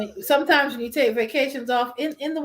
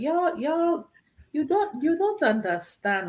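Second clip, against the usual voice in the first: put-on, insistent Nigerian accent; 3 semitones higher than usual. Retelling how she talks to people to get a point across, fake nigerian accent. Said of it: "use my fake Nigerian accent".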